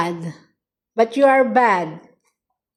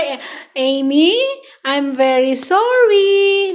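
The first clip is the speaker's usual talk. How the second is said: slow, higher mock pet voice; modeling the apology; 4 semitones higher than usual. Shown as a demonstration. Owner voicing the pet's apology to show it, slow and higher. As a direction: say it for the pet, drawn out. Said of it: "Like that".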